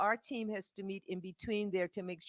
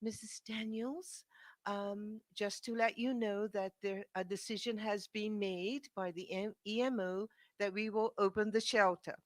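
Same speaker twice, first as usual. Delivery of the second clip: gentle caller; 3 semitones higher than usual. Retold or imitated. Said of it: "from a very gentle, uh, lovely Renee Brown".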